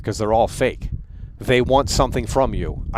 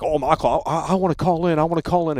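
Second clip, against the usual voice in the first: higher, pleading mock voice; mocking whiny fan; 5 semitones higher than usual. Streamer mocking a fan who begs to call in, whiny mockery. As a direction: mimic a needy caller begging.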